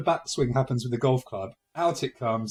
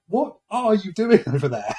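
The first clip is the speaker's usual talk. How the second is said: woken wife; 6 semitones higher, 9 dB louder than usual. Retold or imitated. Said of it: "And she was like".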